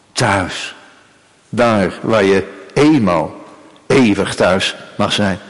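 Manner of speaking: low, slow, settling close; tender reassurance. Acted. God promises Israel a home forever, low and tender.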